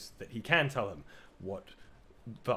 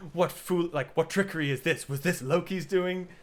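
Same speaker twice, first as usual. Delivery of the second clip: higher, louder, suspicious demand; indignant god; 6 semitones higher, 5 dB louder than usual. Retold or imitated. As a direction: accuse the room like an offended old god.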